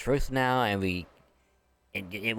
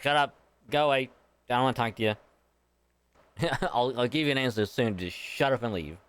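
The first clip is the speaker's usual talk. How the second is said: mock dragon brush-off; 2 semitones higher, faster than usual. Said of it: "It's like".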